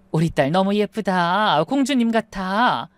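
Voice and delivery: mother to bride in wedding dress, slow and tender. Acted. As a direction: savour each word like a proud mum. Mother admires daughter in dress.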